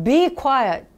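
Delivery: teacher's loud order to shut up; sharp command. Shown as a demonstration. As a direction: bark it at noisy kids. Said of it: "빼요".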